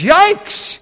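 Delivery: high, loud mock shriek; alarmed yelp. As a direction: yelp as if suddenly exposed. Demons and man recoil at truth.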